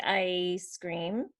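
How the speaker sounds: slow "ice cream" with a stretched "eye" start; long I. Shown as a demonstration. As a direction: draw out the first vowel of "ice cream". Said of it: "the long one".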